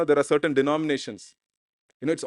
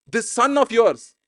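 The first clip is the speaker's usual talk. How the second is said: slow, higher-pitched, scornful accusation; acted resentment, higher and stretched; angry; 5 semitones higher, 3 dB louder, slower than usual. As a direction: draw it out as an indignant older brother. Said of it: "He's angry".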